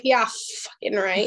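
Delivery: slow, dry disbelief; sceptical scoff. Retold or imitated. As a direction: drag it out, not buying a word. Her sceptical reply.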